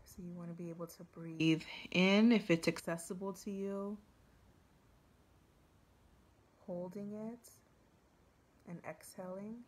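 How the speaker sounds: measured meditation guide with long pauses; guided meditation. Real, not acted. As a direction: ease listeners into the forest scene, unhurried. Leads a forest meditation.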